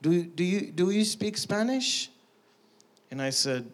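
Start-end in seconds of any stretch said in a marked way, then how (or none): 0.0-2.1 imitating a Hispanic man's accent, lifting at the question; lightly put-on Hispanic accent. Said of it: "with his little Hispanic accent".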